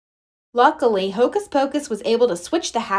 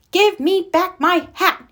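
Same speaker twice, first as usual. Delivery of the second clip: exclaiming demand; 8 semitones higher than usual. Acted. Magician confronts the children for his hat, raised higher. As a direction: snap it at them, wanting the hat. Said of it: "he exclaimed".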